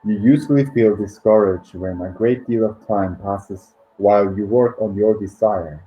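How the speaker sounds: measured book reading with pauses between phrases; meditation read-aloud. Acted. Host reads listeners a financial abundance meditation, measured read-aloud.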